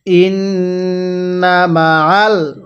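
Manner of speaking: stretched syllables, measured Arabic reading; slow recitation. Shown as a demonstration. Teacher models the word slowly for learners to copy. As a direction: draw out ওয়া র ফা না evenly. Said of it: "আরেকবার আমার সাথে পড়বেন।".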